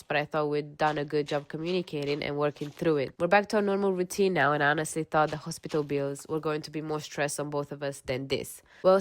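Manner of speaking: even-paced reading of a personal post; measured first-person narration; story read-aloud. Acted. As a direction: read it out like someone's confession. Reads a posted story aloud.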